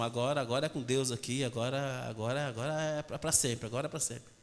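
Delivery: low, soft vow; earnest promise. Acted. Believer tells God he learned the lesson, earnest promise. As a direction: pledge it quietly, voice dropped.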